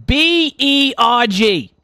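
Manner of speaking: slow, spaced-out letters; careful spelling. Pretend. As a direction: spell the surname out slowly, letter by letter. Spelling surname for the other player.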